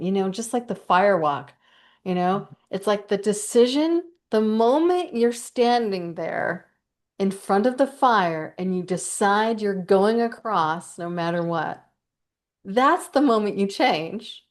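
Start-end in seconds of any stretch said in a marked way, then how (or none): 2.7-14.4 real, mildly excited emphasis; getting excited. Real, not acted. Speaker explaining the fire walk decision, getting excited. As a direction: get carried away making the point, key words stretched. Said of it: "I'm getting excited here".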